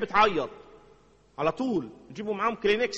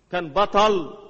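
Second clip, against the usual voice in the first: emphatic repeat, louder; louder declaration; 6 dB louder, much slower than usual. Shown as a demonstration. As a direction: proclaim it the second time. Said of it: "repeated, louder".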